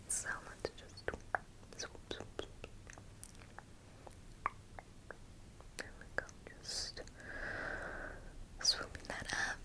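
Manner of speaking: close, very soft unvoiced whisper; leaning in to whisper. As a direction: lean in and breathe the words. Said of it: "if I whisper really close to you".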